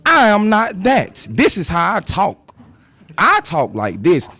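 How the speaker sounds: a hint of a prim, proper office voice; professional voice. To coworkers, mocking the expected proper voice. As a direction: put on the polished work voice, lightly mocking. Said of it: "Professionalism. You have to".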